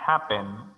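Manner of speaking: "happen" with the weight on HAP; stress on first syllable. Shown as a demonstration. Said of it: "énfasis de sonido en la primera sílaba".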